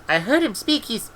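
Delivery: put-on a girl defending him, close to crying; near tears. A narrator's reading. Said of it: "Esk was near to tears".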